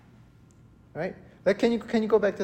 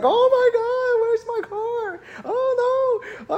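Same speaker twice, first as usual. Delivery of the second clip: very high, wailing panic; hammed-up whimpering despair; mock freak-out; 3 dB louder, slower than usual. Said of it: "I was freaking out".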